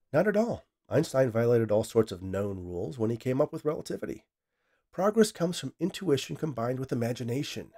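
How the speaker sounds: high on the first words, then eager lecturing; insistent scientist. Acted. Scientist argues with his AI, insistent and eager. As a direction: brush off the objection. The speaker's character voice.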